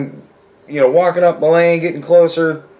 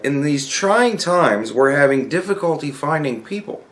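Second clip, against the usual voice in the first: email read-out; 3 dB quieter than usual. Retold or imitated. Reads out the company email.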